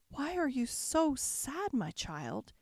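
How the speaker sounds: put-on high, slow, kindly old fairy voice; fairy godmother voice. Fairy godmother asks weeping Cinderella why she is sad, high kindly voice. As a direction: lift into a gentle old fairy's voice.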